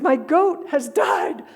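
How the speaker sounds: hammed-up lament over a goat; mock wailing. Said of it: "this wailing and moaning".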